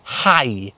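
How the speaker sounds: "Hau" sounding like English "hi". Shown as a demonstration. Welsh teacher demonstrates the verb for sow, "Hau" pronounced like "hi". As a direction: say "Hau" to rhyme with "eye", silent u. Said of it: "Think as if you're greeting someone in English".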